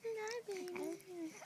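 slow, soft cooing greeting. Real, not acted. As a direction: coo it gently to a newborn. Mother coos to her baby.

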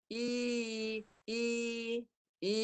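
"I" as an open vowel, no closing y; untightened ya. Shown as a demonstration. Teacher shows the error of not raising tongue, open i. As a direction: say "I" with mid-tongue left down. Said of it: "bunyi dia macam ni".

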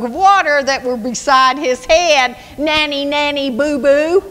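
nanny nanny boo boo, playground jeer; trash talking. Acted. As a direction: rub it in, mocking the guard. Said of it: "This is trash talking at its best".

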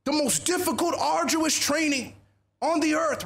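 rally the troops, stretching out the superlatives; imitated general's rousing address; rousing speech. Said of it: "He's trying to rouse you all up".

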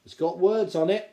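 pleased and boastful; proud. A narrator's reading. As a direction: present your prize find. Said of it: "he said proudly".

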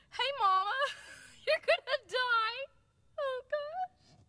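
high voice cracking with real laughter; uncontainable laughter. Real, not acted. Storyteller warning Mama, high helpless laughter. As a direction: squeal it through a laughing fit. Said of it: "I can't even contain myself".

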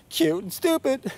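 high, squawky parrot mimicry. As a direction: squawk it back like a talking bird. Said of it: "the bird goes".

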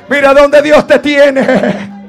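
slow, projected proclamation; emphatic preaching. Real, not acted. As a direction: draw it out with full voice. Repeat in full preaching voice. (proclamación lenta a plena voz)

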